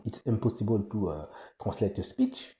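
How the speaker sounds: French-accented English, unpolished; a strong French accent in English. Real, not acted. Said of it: "en anglais avec mon accent pourri".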